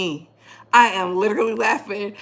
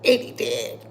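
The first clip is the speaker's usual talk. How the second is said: breathy near-whisper, barely voiced; almost whispered aside; hushed deadpan; 5 dB quieter than usual. Real, not acted. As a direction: let it slip out under your breath. Deadpan repeat of own joke.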